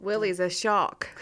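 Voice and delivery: "shock" said for shark with the R dropped; mimicked missing R's. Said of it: "he can't say his R's".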